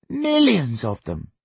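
put-on high, drawn-out little-boy excitement; thrilled small boy, stretching the words; excited child. A narrator's reading. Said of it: "Sonny said excitedly".

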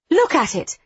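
high urgent shout; exclaiming. A narrator's reading. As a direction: shove it at him, loud. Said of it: "Demeter exclaims".

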